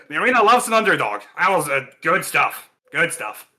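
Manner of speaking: quick hearty champ voice. Acted. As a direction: rattle it off like an arena star. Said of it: "he said".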